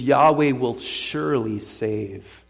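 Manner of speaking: "surely save" drawn out slowly for weight; slow, deliberate weight on "surely save"; stress on the verb. Shown as a demonstration. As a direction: stretch out "surely save" with firm emphasis. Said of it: "the stress is placed on the verb".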